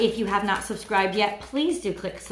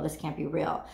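lower, softer, dying away; fading disbelief; 4 semitones lower, 5 dB quieter than usual. Pretend. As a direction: let it trail off in disbelief. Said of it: "And the feeling is".

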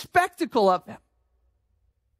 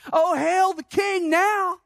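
sneering mock hail; 5 semitones higher than usual. Preacher mimics the sneer.

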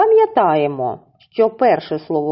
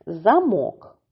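"Замок" stressed on the last syllable, -мок; stress on second syllable. Shown as a demonstration. Teacher naming the first picture for children, stress on second syllable. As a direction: say "Замок" as za-MOK. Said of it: "Наголос падає на другий склад".

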